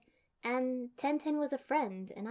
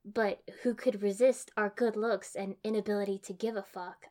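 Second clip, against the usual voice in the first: deadpan; 4 dB louder than usual. Acted. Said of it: "I deadpanned".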